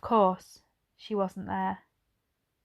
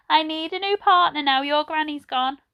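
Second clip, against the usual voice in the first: put-on old lady voice; 7 semitones higher, 4 dB louder than usual. A narrator's reading. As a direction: voice her like a gentle elderly lady. Edna invites Ben.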